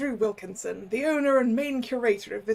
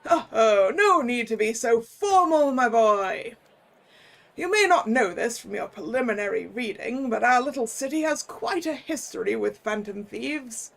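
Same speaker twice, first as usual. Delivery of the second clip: put-on jolly old curator. Curator explains the city's history.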